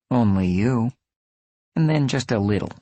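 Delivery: put-on high, teasing Czech-accented voice; breathy Czech accent. A narrator's reading. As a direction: flirt lightly in a Czech accent. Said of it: "in her breathy Czech accent".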